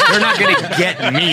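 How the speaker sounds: high laughing line. Real, not acted. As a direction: laugh through the words. Laughing through the quote.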